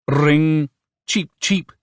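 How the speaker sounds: high-pitched telephone bird; little ringing cheeps; chirping bird. A narrator's reading. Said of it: "chirped the bird".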